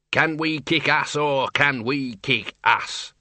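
slow, gleeful burble; happy burbling. Acted. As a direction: bubble over with giddy glee. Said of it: "burbled the Dean happily".

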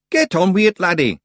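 high, loud Scots pixie bark; demanding Feegle. Acted. Rob Anybody pushes Roland to get on with it, loud and high. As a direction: hurry the lad up, impatient. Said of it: "he demanded".

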